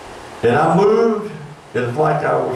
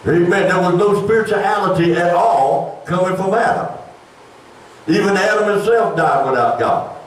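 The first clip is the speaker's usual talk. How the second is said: higher-pitched, insistent sermon voice; preaching; 6 semitones higher than usual. Real, not acted. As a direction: preach it to the congregation. Preaches doctrine with raised pitch.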